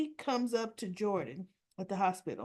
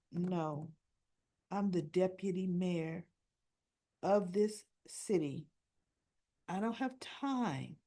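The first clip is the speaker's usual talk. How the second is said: slow, lower, dismissive official putting her in her place; haughty brush-off; 3 semitones lower, slower than usual. Retold or imitated. Deputy mayor refusing the nurses' ball, slow and dismissive. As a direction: talk down to her slowly and coolly. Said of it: "And I thought".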